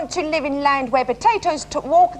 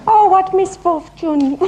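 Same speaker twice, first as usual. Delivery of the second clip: overacted lover; 4 semitones higher, 4 dB louder, slower than usual. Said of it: "feel free to overact".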